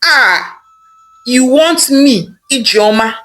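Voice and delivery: betrayed wife crying out at her husband; distraught. Acted. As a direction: break down in anguished cries. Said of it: "Ijeoma said very sadly".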